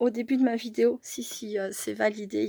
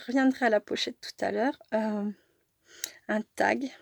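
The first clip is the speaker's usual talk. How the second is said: blocked nose while talking; congested, cold-stuffed voice; stuffy nose; 3 dB louder than usual. Real, not acted. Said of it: "je parle avec le nez bouché".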